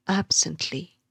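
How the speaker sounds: "absently" with AB stressed; weight the AB of "absently"; AB-sent-ly, falling away after the first syllable. Shown as a demonstration. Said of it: "the stress is on the first syllable".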